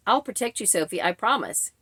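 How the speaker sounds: subdued, uninflected machine narrator; flat AI reading. Retold or imitated. Imitating AI reading a man's promise, falling flat. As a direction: read it like text-to-speech, no feeling. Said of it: "It just fell so flat".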